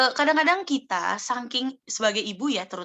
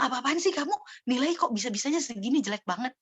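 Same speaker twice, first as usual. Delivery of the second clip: mild acted scolding; 3 semitones higher, 3 dB quieter than usual. Parent scolds child over bad grades, mildly acted anger. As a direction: play a disappointed parent telling off. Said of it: "Gitu juga anak kalau kita bilang".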